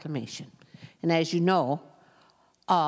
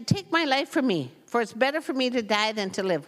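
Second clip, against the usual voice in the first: whiny Jonah; 5 semitones higher than usual. Retold or imitated. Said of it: "What a whiner".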